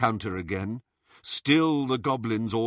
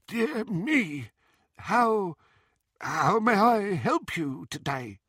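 high goblin voice, oily and polite; a goblin forcing polite service; nasty nasal goblin sneer; 9 semitones higher, slower than usual. A narrator's reading. Goblin greets Bellatrix.

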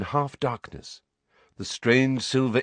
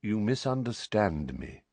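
calm; 4 dB quieter than usual. Acted. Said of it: "still in the same calm tone".

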